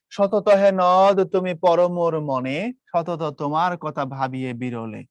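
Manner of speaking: slow, drawn-out verse reading; lingering poetic delivery; poem recitation. Acted. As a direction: recite it slowly, letting the second line sink. Recites the poem's opening.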